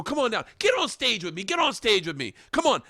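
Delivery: high, loud sarcastic call; mock calling out. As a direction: call him back up with fake cheer. Mocking host calling guy back.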